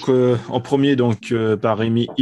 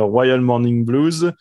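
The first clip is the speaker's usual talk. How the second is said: slowly reading English titles with a French accent; stumbling over an English album title, French accent; much slower than usual. Shown as a demonstration. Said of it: "avec mon accent anglais".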